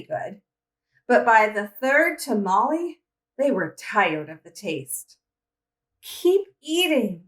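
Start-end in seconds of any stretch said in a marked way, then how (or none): 6.0-7.2 slow, high scolding. Acted. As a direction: push them on like a bossy cousin. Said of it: "Maria scolded".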